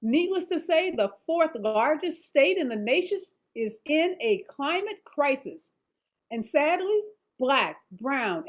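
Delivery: measured anchor teaser read; news read. Acted.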